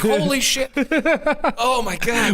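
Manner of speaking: loud high disbelief; shocked. Retold or imitated. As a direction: blurt out the shock. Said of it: "I'm like".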